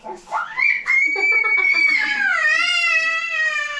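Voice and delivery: very high, loud laugh close to tears; helpless shrieking laugh. Real, not acted. Mom losing it laughing at her toddler, shrieking. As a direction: laugh until it almost cries.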